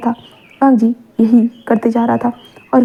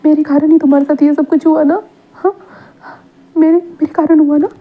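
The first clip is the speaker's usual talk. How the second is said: higher, breaking plea for forgiveness; a lightly voiced, remorseful confession; tearful pleading; 3 semitones higher than usual. Tearful recognition and apology. (माफ़ी माँगते हुए, भावुक होकर ऊँची आवाज़ में)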